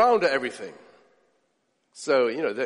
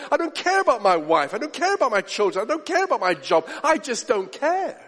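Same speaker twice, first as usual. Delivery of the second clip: cynical indifference. Retold or imitated. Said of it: "They say".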